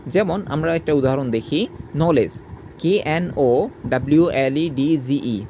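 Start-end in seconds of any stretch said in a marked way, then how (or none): 1.9-2.3 "নলেজ" as no-lej, no D before the j; "নলেজ", DG sounded as a single j; silent D. Shown as a demonstration. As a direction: say "নলেজ" with the D left out. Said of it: "তাহলে ডির উচ্চারণ হয় না".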